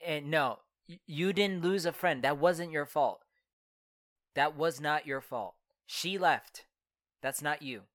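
calm a guilty friend; reassuring. Acted. Reassuring Anita it wasn't her fault, gently.

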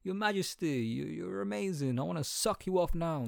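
hammed-up sycophant; mock fawning. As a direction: gush sarcastically over royalty. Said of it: "that I would say".

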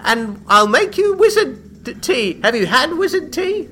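very high, loud, eccentric host; Franklin, mad welcome. Acted. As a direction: welcome them in with batty eagerness. Mad Franklin invites her in.

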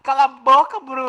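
loud, high shout. Acted. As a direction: yell shut up. Shouting shut up at Bruno.

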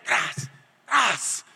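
two sharp mouth-made rips; imitated ripping noise. Preacher acts out pulling out his tubes, imitated rips. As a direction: imitate tubes being torn loose.

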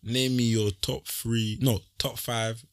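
slow, drawn-out crooner voice. Pretend. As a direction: croon it slowly like an R&B singer. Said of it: "That's his R&B voice too".

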